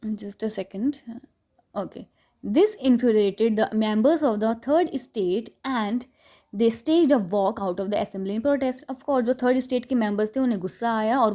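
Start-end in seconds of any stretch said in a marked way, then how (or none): 2.5-8.8 slow, deliberate reading of the English text; textbook read aloud. Acted. Teacher reading the chapter to students, slow and deliberate. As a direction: read each phrase slowly for the class.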